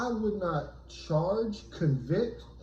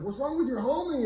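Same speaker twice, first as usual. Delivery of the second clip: yelled from across street; 10 semitones higher than usual. Retold or imitated. Gangbanger yelling across street.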